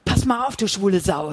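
loud, menacing threat; threatening voice. Acted. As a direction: threaten him to his face. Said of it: "Sids drohende Stimme".

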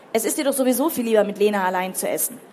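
mildly heated, hurried retort; accusing teenager. Acted. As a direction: fire an accusation at a parent. Teenager accuses father in quarrel.

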